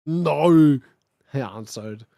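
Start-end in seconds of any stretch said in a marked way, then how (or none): 0.1-0.8 put-on louder, moody boy's no; a touch of brooding goth boy; sulky Draco. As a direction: throw the no out sulkily. Draco answers, acted.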